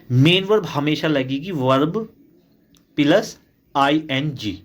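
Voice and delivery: slow, deliberate rule with weight on "प्लस"; slow emphasis. Shown as a demonstration. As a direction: spell out the rule word by word for students. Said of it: "बड़े ध्यान से आप समझेंगे".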